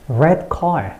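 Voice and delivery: slow, stressed "red" and "car"; stress on both words. Shown as a demonstration. Teacher isolates stressed words for learners, weight on "red car". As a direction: give "red" and "car" each a full beat. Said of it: "이렇게 강세를 넣으시면 되겠습니다".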